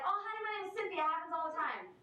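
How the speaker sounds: high-pitched front desk lady; lightly imitated "oh, honey" receptionist; friendly receptionist. Voicing the front desk woman.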